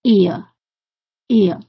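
ear，ear slowly drawn out, lips closing at the end. Shown as a demonstration. Teacher explaining why the BBC teacher closes ear, slow demo. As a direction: stretch ear，ear and let the mouth close. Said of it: "它闭拢了".

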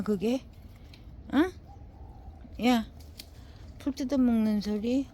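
loud exasperated telling-off with repeated calls; scolding the dog. Real, not acted. Owner scolding her dog for eating weeds, loud exasperation. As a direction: yell at the dog, half fed up.

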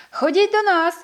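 loud, high call across the hilltop; a squirrel calling the owlets from the far side. A narrator's reading. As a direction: invite them over from afar. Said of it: "покликала Ержіка".

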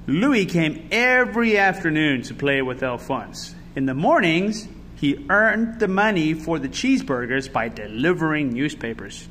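put-on measured storytelling to children; picture-book narrator; story narration. A narrator's reading. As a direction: read the story aloud with expressive emphasis.

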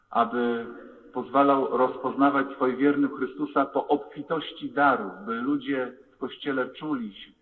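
intoning the prayers of the faithful; liturgical prayer. Acted. Leads the creed and prayers.

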